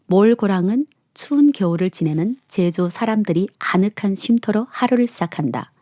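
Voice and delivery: measured, clearly phrased story reading; letter reading. A narrator's reading. Host reading a letter about a Jeju restaurant, narrating evenly. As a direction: read it aloud like a personal essay. Reads a listener's letter aloud.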